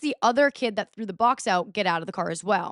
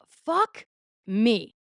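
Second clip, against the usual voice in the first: dismayed curse. Retold or imitated. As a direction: swear as the lights go on. Cop lights behind them.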